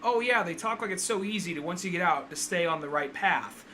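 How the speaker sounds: a hint of Harley's whiny rant; imitating Harley Quinn.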